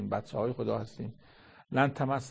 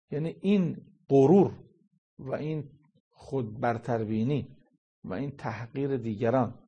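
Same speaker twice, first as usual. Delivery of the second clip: raised condemnation. Acted. Preacher condemns arrogance.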